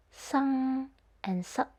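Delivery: sung drawn out slowly, sup clipped; NG versus K ending. Shown as a demonstration. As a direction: stretch sung, snap sup. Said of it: "when the last letter is changed".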